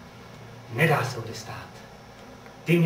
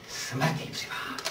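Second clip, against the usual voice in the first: whisper; 6 dB quieter than usual. Acted. Muttered threat at the wall.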